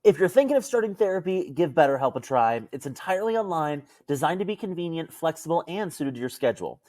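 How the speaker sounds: upbeat sponsor read, brisk at the start; friendly host reading the sponsor spot. Acted. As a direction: sell it like a podcast ad.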